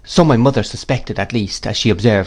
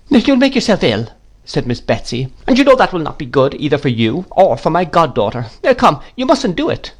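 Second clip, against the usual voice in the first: put-on commanding old aunt; 6 semitones higher than usual. A narrator's reading. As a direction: snap orders at the maid like you own the house. Miss Betsy urges her to stop crying.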